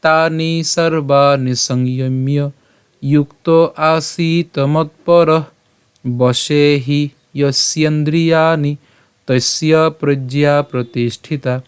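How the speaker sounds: slow, measured shloka recitation; Sanskrit verse recitation. Shown as a demonstration. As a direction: draw out the long vowels, pausing between phrases. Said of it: "আমরা যদি শুরু করে পাঠ করি".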